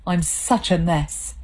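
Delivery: tearful. Acted. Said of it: "He was now openly crying".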